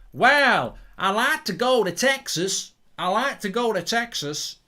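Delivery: high, loud put-on Scottish accent; exaggerated, drawn-out Scottish lilt. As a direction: slip into a playful Scottish voice. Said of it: "I don't know why I'm speaking Scottish".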